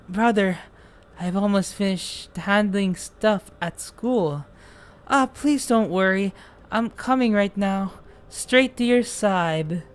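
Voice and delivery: calm, slowing, eerie reassurance; creepy younger brother. Acted. Younger brother says he is coming to Leo, eerily calm. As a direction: promise it gently, with quiet menace.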